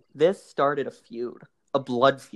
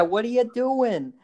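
high, slow nasal-free New York Jewish mom; drawn out New York Jewish "What are you doing?"; New York Jewish accent; 9 semitones higher than usual. Retold or imitated. Mom confronting her son in New York Jewish accent. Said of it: "the most New York Jewish accent, like Larry David".

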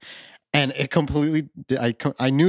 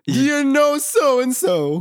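high, slow, excited Scottish holler; Scottish impression; 6 dB louder, much slower than usual. Willie quizzing Homer about home, excited Scottish. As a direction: ask it eagerly in broad Scottish. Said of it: "that's a really Scottish phrase".

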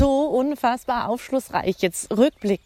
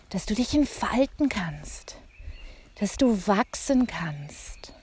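whisper; 6 dB quieter than usual. Real, not acted. Guidance on growth.

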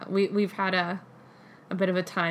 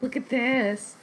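excited; 3 semitones higher, 5 dB louder, much slower than usual. Retold or imitated. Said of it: "I was like".

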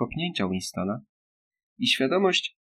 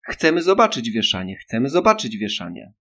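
screaming; 5 dB louder than usual. Acted. Little girl demanding the hanging, loud screaming chant. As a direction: scream it over and over. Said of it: "darła się mała".

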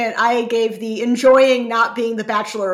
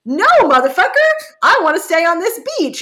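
mock defiant refusal; 8 semitones higher, 6 dB louder than usual. Alana voiced refusing him.

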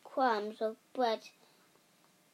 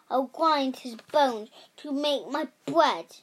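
loud, booming giant chant; giant's rhyme; 6 dB louder than usual. Acted. Giant threatening the hidden boy. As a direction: menace in every word.

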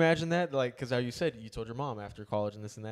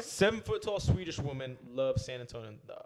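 a hint of a Swedish accent. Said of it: "like, Swedish accent".

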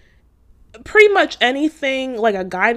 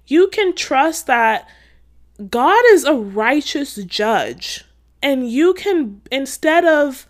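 preaching. Real, not acted. To viewers tempted by revenge, fervent preaching. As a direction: preach it out with conviction. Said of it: "I'm not trying to preach at y'all".

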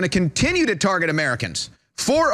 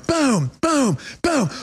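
mimed punch sounds; 4 semitones higher, much slower than usual. Retold or imitated. Imitates the punches.

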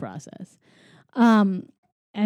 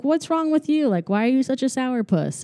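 mock reproach; 5 semitones higher than usual. Roger scolds grumpy Eddie in retelling.

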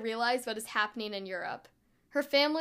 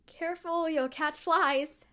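forced lightness; 6 semitones higher, slower than usual. A narrator's reading. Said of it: "trying to keep my voice light".

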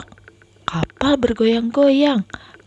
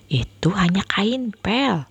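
smiling reassurance. Acted. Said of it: "Kak Nilam tersenyum".

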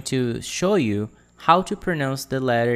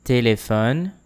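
Téléphone in one quicker flow, rising at the end; a little faster; 4 dB louder than usual. Shown as a demonstration. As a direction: say Téléphone more fluidly, tune lifting. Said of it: "This time a little faster".

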